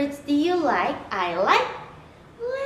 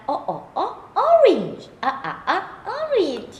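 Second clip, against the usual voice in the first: building excitement; 5 semitones higher than usual. Acted. Mock excitement at orange.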